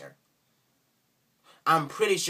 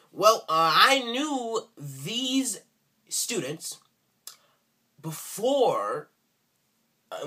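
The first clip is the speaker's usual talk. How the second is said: mocking Southern accent; 4 semitones higher than usual. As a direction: drag it out like a Southern kid explaining. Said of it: "I'm sorry for the accent".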